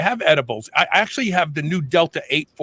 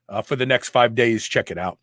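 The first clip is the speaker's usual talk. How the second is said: wheezing a little; wheezy voice; 4 semitones lower than usual. Real, not acted. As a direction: air catching in the throat. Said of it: "I'm wheezing".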